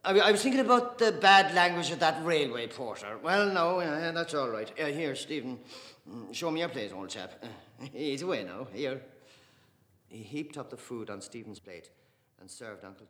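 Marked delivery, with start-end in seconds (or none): 0.0-9.0 loud, high and jovial paterfamilias; hearty father at dinner. Acted. Father serving the family at Christmas dinner, jovial and loud. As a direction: boom it out cheerily across the Christmas table.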